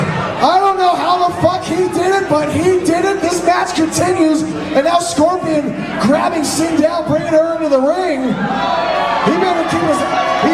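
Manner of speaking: wrestling commentator. Acted. Play-by-play of wrestling match.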